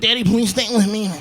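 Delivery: put-on high, whimpering child plea; whiny pleading kid. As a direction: beg daddy not to leave. Son pleading on toilet.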